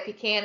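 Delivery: "pecan" said pee-can, as parts of the South say it; Southern pee-can pronunciation. Retold or imitated. Reporting how parts of the South say it, pee-can pronunciation. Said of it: "That's not right".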